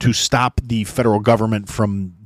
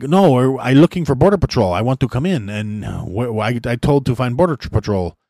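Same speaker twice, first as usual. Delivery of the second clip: badly imitated migrant's foreign accent, slightly raised; halting broken English in a bad foreign accent; horrible foreign accent. Imitating a migrant looking for Border Patrol, horrible foreign accent. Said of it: "this is a horrible accent".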